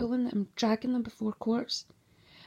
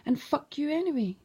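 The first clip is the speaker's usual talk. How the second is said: higher, final fuck-off; defiant curse; 5 semitones higher than usual. Real, not acted. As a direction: spit it out, higher. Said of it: "that's why I say".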